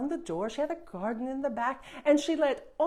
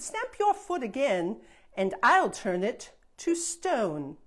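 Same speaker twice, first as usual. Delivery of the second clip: fairy warning; 4 dB louder than usual. Acted. Fairy warning the princess about her foot, mildly stern.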